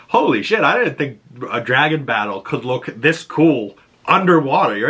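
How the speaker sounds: high, excited burst of awe; amazed. Retold or imitated. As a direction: gush like a thrilled fan. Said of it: "I was like".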